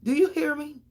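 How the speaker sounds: high, loud call-out; loud demand. Real, not acted. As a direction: demand they listen, loudly.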